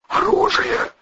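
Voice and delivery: voiceless, lips-only whisper; mouthed whisper. A narrator's reading. Volyna realises the gun is gone, voiceless whisper. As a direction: barely breathe the word. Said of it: "одними".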